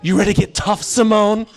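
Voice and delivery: low, hushed casting director, deadly serious; mock-grave scene setting; all serious. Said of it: "he's, like, all serious".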